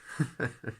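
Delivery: odd, strangled little laugh; weird laugh. Real, not acted. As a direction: let out a strange awkward laugh. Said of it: "That was a weird laugh".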